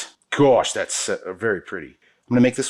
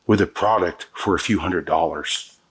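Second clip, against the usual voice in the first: usual speaking voice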